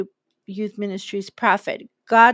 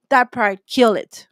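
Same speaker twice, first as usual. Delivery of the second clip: forceful command; 6 dB louder, slower than usual. Real, not acted.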